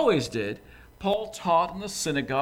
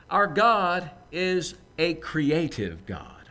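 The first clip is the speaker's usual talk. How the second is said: emphatic statement; much slower than usual. Acted. Preacher states key point twice.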